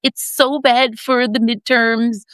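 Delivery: mock pleading, words drawn out; begging. Imitating Democrats urging their party on the midterms, begging. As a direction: plead slowly, imitating anxious party insiders. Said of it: "So they're begging them".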